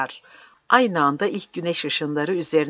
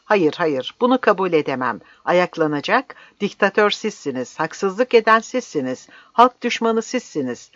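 building from firm refusal to loud, high denunciation; mounting public outcry; shouted protest; 5 semitones higher, 5 dB louder than usual. Acted. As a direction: hurl accusations, climbing to a shout. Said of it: "diye bağıracağım".

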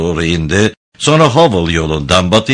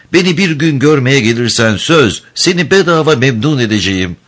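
higher-pitched woman making a promise; grateful woman; 7 semitones higher than usual. A narrator's reading. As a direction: offer it in a higher female voice. Prostitute makes Hunter an offer. (minnettar kadın sesiyle)

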